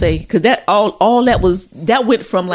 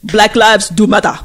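put-on African accent; 4 dB louder than usual. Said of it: "in the African accent".

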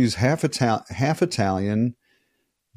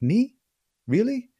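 high, disbelieving little voice; mock surprised girlfriend; 14 semitones higher, slower than usual. Girlfriend doubts the compliment, mock surprised high voice. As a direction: imitate her bashful disbelief, higher up.

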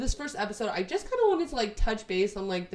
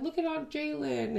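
put-on higher, eager child pointing; excited kid; 7 semitones higher, 4 dB quieter than usual. Future kid spotting aunt in photos, eager.

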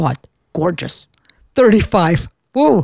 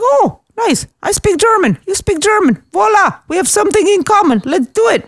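bubbly retold delight, pitched way up; excited; 11 semitones higher than usual. Woman replays her delight at a shared language, excited. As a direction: gush it in a high, eager voice.

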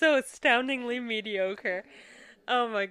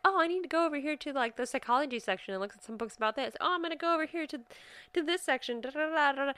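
excited self-talk; 5 semitones higher, faster than usual. Retold or imitated. Imitating herself in a bookstore.

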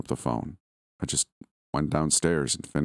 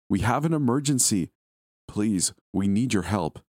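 higher, pleading woman's voice, slowing on the plea; desperate woman caller; 5 semitones higher than usual. Acted. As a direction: beg for help, drawing out the last words. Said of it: "Her voice became more desperate".

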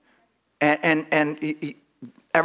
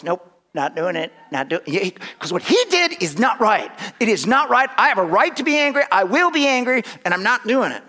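indignant refusal; 3 semitones higher than usual. Retold or imitated. Voicing the offended person's refusal.

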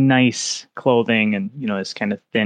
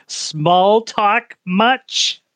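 sarcastic note; 9 semitones higher, much slower than usual. Acted. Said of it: "She just writes".

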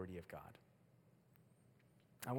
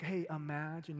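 casual suggestion; 4 semitones higher than usual. Shown as a demonstration. Preacher mimicking the wrong way, casual and vague. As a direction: toss it out with no urgency. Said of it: "It doesn't speak like".

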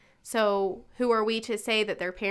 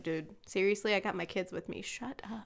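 half-whispered, imitating a hushed telling-off; hushed scolding; 7 dB quieter than usual. Mom at the gas station hushing cursing strangers, whispered scold. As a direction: hiss it under your breath, mock stern. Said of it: "be like".

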